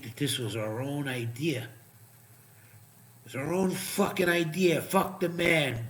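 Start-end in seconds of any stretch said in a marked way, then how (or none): 1.6-5.8 sarcastic slogans. Retold or imitated. Mocks slogans people believed.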